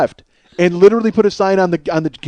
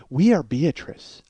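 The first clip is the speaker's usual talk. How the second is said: slow, weird ad-logo voice; commercial tagline; 3 dB quieter, slower than usual. Retold or imitated. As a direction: say it like a strange corporate sign-off. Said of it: "it would go".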